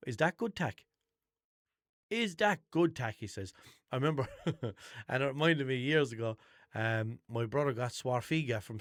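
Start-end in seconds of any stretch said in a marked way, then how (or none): 0.1-3.2 lightly voiced dad asking his daughter; a hint of the annoying dad, slowing on the second ask; imitating the dad. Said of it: "and he goes".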